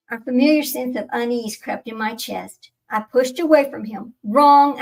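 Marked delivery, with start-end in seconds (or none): 4.2-4.8 a sharp, loud snap of one word; snapped. A narrator's reading. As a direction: cut him off hard. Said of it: "I snapped".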